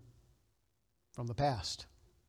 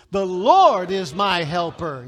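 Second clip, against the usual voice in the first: slow, much louder, with conviction; like you mean it; 11 dB louder, slower than usual. Shown as a demonstration. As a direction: shout it like you truly believe it. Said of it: "say it like you mean it".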